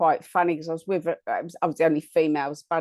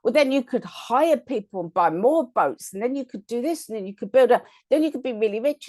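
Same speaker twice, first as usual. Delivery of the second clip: mildly exasperated, higher retold businessman pushing his point; a touch of a frustrated businessman, voice raised in pitch; 5 semitones higher than usual. Storyteller voicing the businessman frustrated with the fisherman, lightly exasperated. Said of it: "businessman getting frustrated with him".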